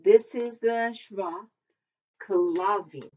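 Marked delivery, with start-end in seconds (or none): 2.3-3.1 "kalavim" said as ka-LA-vim, stress on the middle syllable; "kalavim" with the accent on LA; "kalavim" with the weight on the second syllable. Shown as a demonstration. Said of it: "you have the accent on that second syllable".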